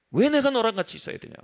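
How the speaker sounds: quick, mildly angry protest; a touch of acted anger, hurried; mock anger. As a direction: act out a fast, irritated objection. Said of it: "막 화를 냅니다".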